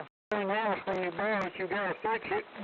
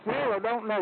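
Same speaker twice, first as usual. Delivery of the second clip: talking through a mouthful of crackers; words around a cracker bite; mouth full of crackers; 3 semitones higher, 4 dB louder than usual. Real, not acted. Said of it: "mouth full of crackers".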